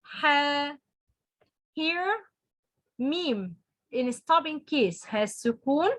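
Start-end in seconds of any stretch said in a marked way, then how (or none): 0.0-0.8 ح held briefly on a level tone; two-count vowel. Shown as a demonstration. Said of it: "or two حركة".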